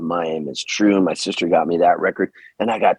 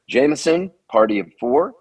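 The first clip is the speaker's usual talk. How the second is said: lightly hammed-up pizza counter announcing; pizza announcer call; 5 semitones higher than usual. Nineteen-year-old calling out pizza orders on the mic, mock announcer. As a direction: call the order out over the mic with a bit of flair. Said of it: "I would practice all these vocal inflections".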